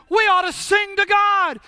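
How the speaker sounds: high-pitched acted call; rally the crowd, calling out; shouted exhortation. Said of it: "somebody shouted".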